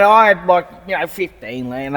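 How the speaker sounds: put-on Aussie old bloke; lightly voiced Aussie customer; Aussie accent. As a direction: launch into a spiel in broad Aussie. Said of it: "You can do the Aussie".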